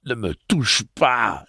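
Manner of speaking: high, slow plea through whimpers; whimpering. A narrator's reading. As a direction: shrink back, whimpering. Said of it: "sans cesser de gémir".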